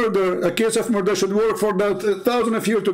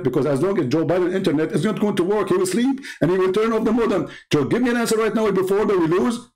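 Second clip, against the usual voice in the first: mock Zakir Naik, fast. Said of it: "Zakir Naik will answer with high speed".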